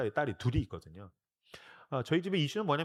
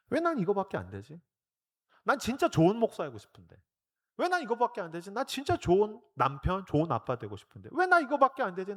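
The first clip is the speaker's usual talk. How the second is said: rising, higher self-reproach; plead, growing more desperate; anguished self-reproach; 4 semitones higher than usual. Retold or imitated. Pastor repenting before the cross, building higher.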